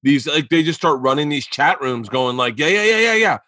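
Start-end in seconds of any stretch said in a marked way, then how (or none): 2.6-3.4 hammed-up bad Russian accent, chuckling through it; horrible Russian accent. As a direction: play a chat-room troll in a clumsy Russian accent. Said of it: "that's a horrible Russian accent".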